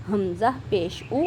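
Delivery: او with lips pushed into a round circle; rounded lips demo. Shown as a demonstration. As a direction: say او through fully rounded lips. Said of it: "ایسے آپ نے ایک circle بنانا ہے". (گول ہونٹوں سے او)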